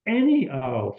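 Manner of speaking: "any" hit hard, falling after; stress on ANY. Shown as a demonstration. Linguist insisting every owl counts, emphatic stress on "any". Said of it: "what any does is emphasize this".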